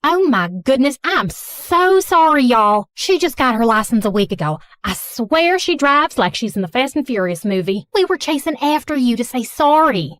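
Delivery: lightly voiced Southern mom accent. Blonde mother apologizing after crash, mild Southern accent. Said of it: "speaking in a thick Southern accent".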